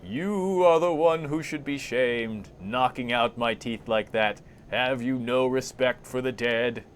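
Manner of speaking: drawn-out, accusing voice of the dead; thrown corpse voice. Acted. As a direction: intone reproachfully as a talking corpse. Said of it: "Throw voice".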